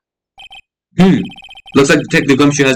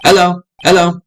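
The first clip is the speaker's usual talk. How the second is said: parrot squawk; 5 semitones higher than usual. Acted. Voicing the parrot Polly.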